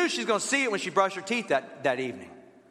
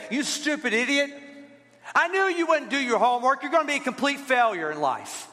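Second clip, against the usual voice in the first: mock harsh parent; 4 semitones higher than usual.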